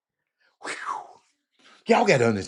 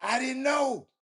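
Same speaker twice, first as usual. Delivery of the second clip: surprised exclamation; 10 semitones higher, slower than usual. Real, not acted. Surprised reaction to reading.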